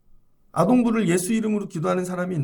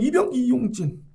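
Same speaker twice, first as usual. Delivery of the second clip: korean military style; 4 semitones higher than usual. Retold or imitated. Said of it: "손가락으로 하면".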